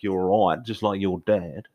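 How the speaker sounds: attempted Australian accent; put-on Australian accent. Shown as a demonstration. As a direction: slip into a light Australian accent. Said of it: "then it'll go Australian".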